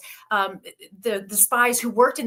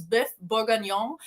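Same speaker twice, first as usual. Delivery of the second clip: bœuf bourguignon in a careful French accent. Shown as a demonstration. Author trying to say a recipe name properly, French accent. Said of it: "say it with a French accent".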